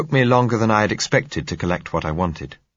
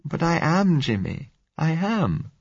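frightened plea; 11 semitones higher, slower than usual. A narrator's reading. Blind girl pleading with Jimmy, frightened and high. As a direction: beg him not to leave, scared.

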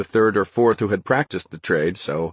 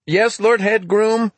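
high, loud, slow shout; yelled; 13 semitones higher, 4 dB louder, slower than usual. A narrator's reading. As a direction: call it out with relief across the yard. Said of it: "Peter yelled".

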